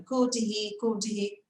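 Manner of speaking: "Could he" repeated as "kudi", H dropped; drilling linked could he. Shown as a demonstration. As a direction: practise "could he" with the words run together. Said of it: "ela fica treinando".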